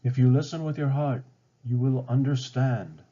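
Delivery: put-on wise old tree. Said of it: "Grandmother Willow replied".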